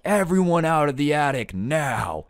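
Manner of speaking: stern grandpa. Retold or imitated. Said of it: "the way he says it".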